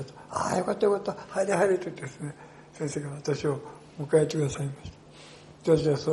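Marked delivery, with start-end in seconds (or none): 0.3-1.8 joyful welcome. Retold or imitated. Old woman welcomes him in.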